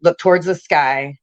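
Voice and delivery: spoken-word poem, lightly performed; poem recital. Acted. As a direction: read the poem like spoken word, steady and heavy. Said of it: "it starts".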